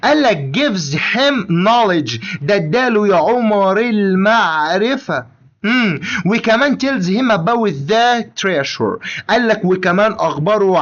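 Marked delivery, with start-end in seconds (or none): 0.6-2.2 very slow, word by word; slow dictation. Shown as a demonstration. Teacher reading the English phrase slowly to Omar. 6.8-9.2 very slow, word by word; slow dictation. Shown as a demonstration. Teacher reading the English phrase slowly to Omar.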